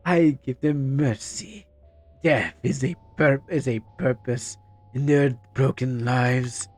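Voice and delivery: slow, menacing villain reading; drawn-out sinister game villain. Acted. Voicing villain line.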